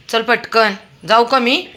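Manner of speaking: loud, high call to the dog. Real, not acted. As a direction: hurry him along with a sharp call. Calling dog to hurry. (कुत्र्याला मोठ्याने हाक)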